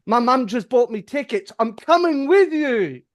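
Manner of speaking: put-on excited girlfriend. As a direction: announce it like an overjoyed, clingy girlfriend. Mimics girlfriend's excited announcement.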